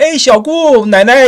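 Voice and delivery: high-pitched call, held back from a full shout; retold yelling. Child calling grandmother and aunt after nightmare, mock yell. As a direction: imitate a child yelling out for family. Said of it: "I started yelling, you know, I started shouting".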